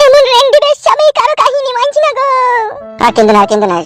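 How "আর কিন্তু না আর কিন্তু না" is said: tearful wife sobbing as she speaks; words broken by weeping; crying. Acted. Wife crying to her husband, tearful plea. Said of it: "তুমি কান্না করা বন্ধ করো".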